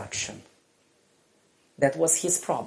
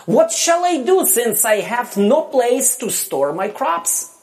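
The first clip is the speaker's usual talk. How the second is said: rich man wondering; 7 semitones higher, 3 dB louder than usual. Acted. Rich man voiced in parable.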